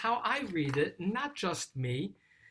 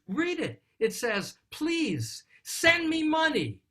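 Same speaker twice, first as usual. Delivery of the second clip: upset father; 9 semitones higher, 5 dB louder than usual. Retold or imitated. Father reading his son's letter aloud, indignant. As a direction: hammer out the son's demand in outrage. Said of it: "He's really upset".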